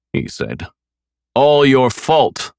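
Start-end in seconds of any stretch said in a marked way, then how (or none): 1.3-2.5 slow drawn-out taunt; mocking repeat. A narrator's reading. Killer repeating the blame, slow taunt. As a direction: stretch it out cruelly. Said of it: "I repeated".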